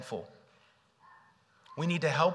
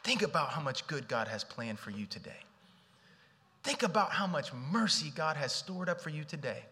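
encouraging inner voice. Pretend. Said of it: "what if the inner voice welling up was".

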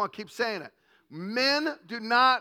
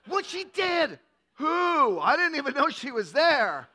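put-on indignant girlfriend. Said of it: "your girl goes".

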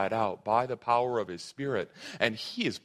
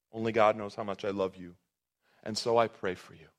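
soft, tender repeat; 5 semitones lower than usual. Shown as a demonstration. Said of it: "It's absolutely beautiful".

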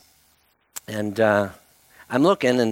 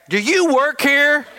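put-on puzzled old man; 13 semitones higher, 4 dB louder, slower than usual. Old man's puzzled question.

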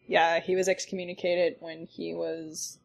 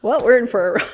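wry resignation; 5 semitones higher, 11 dB louder, faster than usual. Retold or imitated. Resigned exclamation, loud.

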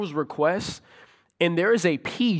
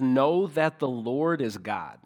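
scripture reading; 3 semitones lower, slower than usual. Shown as a demonstration. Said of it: "the beginning of verse three says".

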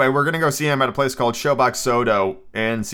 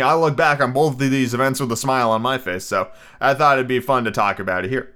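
talking between sips of tea; words around a mug of tea; while sipping a drink; 2 semitones lower, faster than usual. Real, not acted. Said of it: "Sorry, I'm drinking tea".

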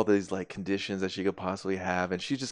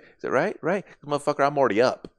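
cocky loud taunt; 5 semitones higher, 7 dB louder than usual. Retold or imitated. Standoff, she already has gun drawn.

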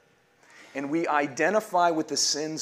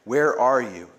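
louder, slow ringing call; liturgical call; 6 dB louder, slower than usual. Acted. Pastor leading the Lenten litany, calling each name out loud. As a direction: call the name out across the church. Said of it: "And we all say".

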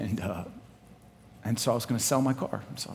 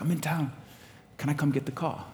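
put-on British accent; 5 semitones higher than usual. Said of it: "he's British".

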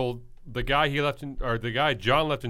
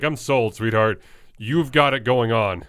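ladies' man voice; 2 semitones lower than usual. Retold or imitated. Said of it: "ladies' man impression sucks".

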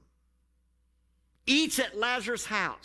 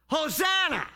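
a raised hail, voicing a crowd; crowd shout; 5 semitones higher, 3 dB louder than usual. The crowd hails Jesus as he arrives, shouted. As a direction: call it out like the crowd greeting Jesus.

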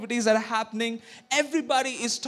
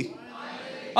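crowd response; 13 dB quieter, slower than usual. Real, not acted. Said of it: "Can everybody say".

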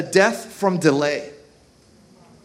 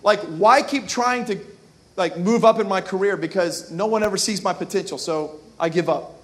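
discouraged mantra. Retold or imitated. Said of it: "the mantra for being discouraged".

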